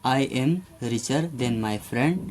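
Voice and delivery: very slow, word by word example sentence; slow dictation. Shown as a demonstration. Teacher dictating an example to students, very slow. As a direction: spell it out slowly for the class. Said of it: "तो इसके साथ ER लग जाएगा।".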